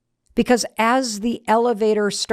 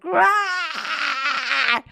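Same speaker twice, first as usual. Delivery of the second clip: held-back mock scream, drawn out; long "aah" of release at half power; imitated scream; 6 semitones higher than usual. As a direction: imitate her scream without full volume. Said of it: "let out that scream".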